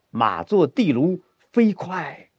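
slow, lifted, driving forward; galloping drive. Shown as a demonstration. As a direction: ride it like a running horse. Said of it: "跑一会儿". (像马在跑，推进感)

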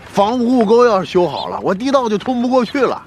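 high, urgent worry over the plan; agitated complaint. Acted. Villager frets to the captain that the tunnel will be blocked, agitated. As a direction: push the pitch up, exasperated.

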